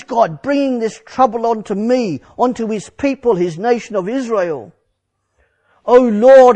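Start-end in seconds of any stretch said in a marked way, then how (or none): 5.9-6.6 higher and louder, a pleading cry to the Lord; crying out to God. Acted. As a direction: call out to God in distress. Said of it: "I cried".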